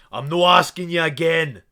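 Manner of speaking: high, loud angry guard yell; shouted demand. Acted. Guard yelling at the party for the password, angry.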